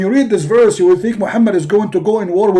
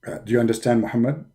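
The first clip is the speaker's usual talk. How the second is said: Jibreel's voice; 8 dB quieter than usual. Acted. Jibreel relays message.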